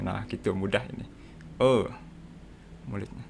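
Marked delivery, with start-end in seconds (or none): 1.6-1.7 "E" as the Sundanese eu sound; unrounded eu vowel for "E"; Sundanese-style E. Shown as a demonstration. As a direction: say "E" like the eu in Sundanese speech. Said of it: "E-nya mirip kayak orang Sunda".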